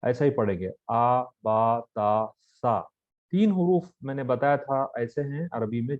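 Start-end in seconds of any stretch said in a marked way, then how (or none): 0.9-2.8 आ बा ता सा with a short, unstretched a; short aa vowels. Shown as a demonstration. Teacher drilling zabar letters, short even syllables. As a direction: clip each syllable, no long pull. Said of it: "ज्यादा नहीं खींचेंगे".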